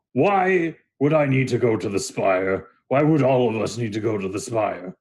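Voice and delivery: lightly voiced skeptical Minotaur; gruff-tempered Minotaur. Game master plays the big Minotaur.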